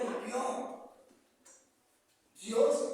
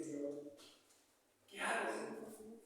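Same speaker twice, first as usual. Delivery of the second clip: retold prayer; 6 semitones lower, 12 dB quieter than usual. Retold morning prayer in distress.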